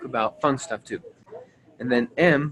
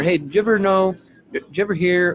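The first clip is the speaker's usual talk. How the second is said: curious teaser; 5 semitones higher, 5 dB louder than usual. Shown as a demonstration. Demoing a curiosity opener.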